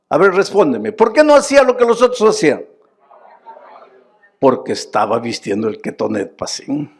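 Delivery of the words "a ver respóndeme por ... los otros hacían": high, loud and fast, insisting; repeated demand. Acted. Preacher insists the congregation answer, loud and fast. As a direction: hammer the same question again.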